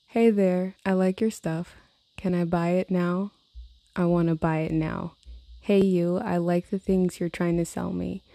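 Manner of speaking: reading her own song lyrics aloud. Real, not acted. Vlogger reading her influencer song lyrics, lightly mocking. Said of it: "here are the lyrics to this song".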